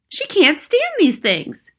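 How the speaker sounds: high, loud, drawn-out protest; frantic yell. A narrator's reading. Father pleading his wife can't stand mice, slow high yell. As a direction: wail it slowly at high pitch. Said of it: "yelled Mister Jenkins".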